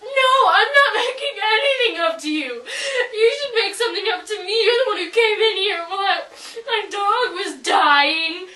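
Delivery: laughing through mock sobs; half-sob, half-laugh it; fake crying. Girl fake-cries while arguing with her friend. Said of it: "Stop crying".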